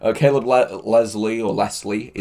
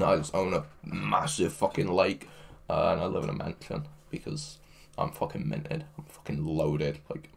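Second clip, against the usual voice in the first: mock whisper; 4 semitones lower, 8 dB quieter than usual. Mock bragging about being rich.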